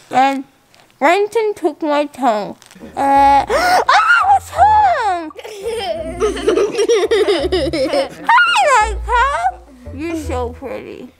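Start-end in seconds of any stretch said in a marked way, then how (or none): 3.0-9.2 excited. Real, not acted. Excited to see the dog.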